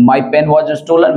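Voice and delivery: very slow, word by word; slow dictation. Shown as a demonstration. Teacher dictating an example sentence to students, very slow. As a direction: spell the sentence out slowly for the class. Teacher gives passive version slowly.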